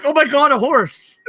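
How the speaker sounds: high delighted squeal through a laugh; excited daughter. Retold or imitated. Father imitating his daughter seeing a horse, high squeal. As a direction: squeal it like a thrilled little girl. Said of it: "My daughter would be like".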